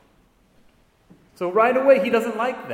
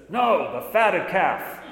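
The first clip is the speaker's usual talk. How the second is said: security guard's punchline; 3 semitones higher, slower than usual. Retold or imitated. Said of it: "He says".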